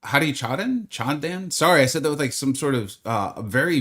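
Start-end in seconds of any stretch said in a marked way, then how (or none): 0.0-1.5 lightly attempted, slowed Japanese accent; poor Japanese accent. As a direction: try a half-hearted Japanese accent on the name. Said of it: "very poor Japanese accent".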